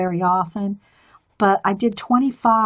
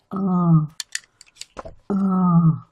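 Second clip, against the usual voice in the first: mock moan; 4 semitones lower than usual. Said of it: "You're sitting there going".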